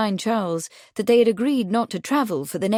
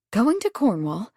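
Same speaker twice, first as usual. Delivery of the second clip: exclaiming; 3 semitones higher than usual. A narrator's reading. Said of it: "she exclaimed".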